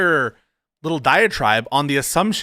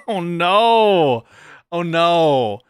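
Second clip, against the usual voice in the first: mock dismay; 3 semitones higher, 3 dB louder, much slower than usual. Real, not acted. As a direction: stretch each "no" in exaggerated dismay. Dismayed reaction to the clip.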